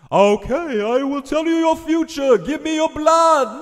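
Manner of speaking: high, loud, booming witch oracle; epic voice. Acted. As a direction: proclaim like a dramatic vampire witch. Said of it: "how do you do that epic voice".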